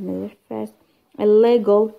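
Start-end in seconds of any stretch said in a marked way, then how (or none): 1.2-1.9 "Illegal" with a loud, held second syllable; stress on second syllable. Shown as a demonstration. Teacher giving another prefix example, loud stress on second syllable of "Illegal". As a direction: hit the LE in "Illegal" loudly. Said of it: "كيف كيف".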